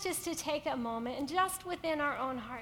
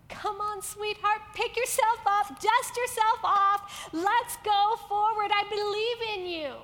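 louder, coaxing encouragement; encouraging God; 2 semitones higher, 6 dB louder than usual. Acted. God cheering a fallen woman, encouraging and louder. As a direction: urge her up gently but firmly. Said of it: "God's over here saying".

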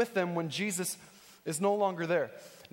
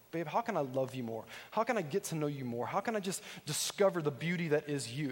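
softer and lower, tender words to his wife; husband gently asking his wife how to love her more; 3 semitones lower, 3 dB quieter than usual. Retold or imitated. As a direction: speak lovingly to your wife, lower and softer.

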